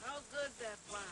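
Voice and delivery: calling out. Real, not acted. Call and response game.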